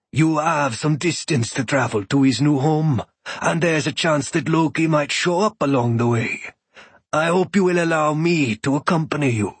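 a hint of a proud god introducing himself; unhurried, resonant-toned foreign god, lightly done; calm thunder god. Shango's long speech.

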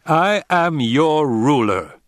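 slow, loud imperial command; cold rasping evil emperor. A narrator's reading. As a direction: spell out each word like a tyrant. Emperor asserting authority.

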